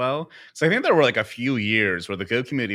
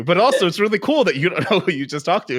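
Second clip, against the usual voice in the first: laughing through the words, pitched up; half-laughing amused retelling; giggling at the irony of the meeting; 11 semitones higher, 8 dB louder than usual. Real, not acted. Laughing while retelling the encounter.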